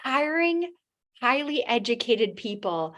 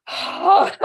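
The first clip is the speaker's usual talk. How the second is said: amused oh; 9 semitones higher, 7 dB louder than usual. Retold or imitated. Therapist's amused reaction.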